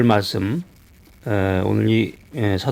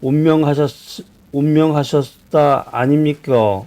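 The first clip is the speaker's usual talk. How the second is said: Gyeongsang dialect; 3 semitones higher, slower than usual. Retold or imitated. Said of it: "경상도 사투리로 그러는데".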